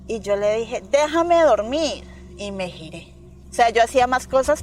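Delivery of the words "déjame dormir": high, very slow drowsy plea; sleepy whiny refusal. Retold or imitated. Daughter pushing away her caller, drowsy and slow. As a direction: drag it out like you're half asleep.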